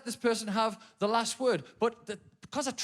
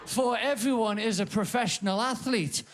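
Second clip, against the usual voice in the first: mocking sarcasm. Mocking runners who won't stop.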